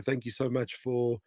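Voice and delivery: hoarse, tired voice fading. Real, not acted. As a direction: voice giving out, hoarse. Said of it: "my voice is, is going".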